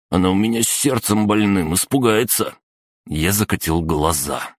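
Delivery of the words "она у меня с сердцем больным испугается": high, plaintive goon voice; worried pleading. A narrator's reading. Third goon pleading for a sick mother, high and worried. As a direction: plead in a raised pitch.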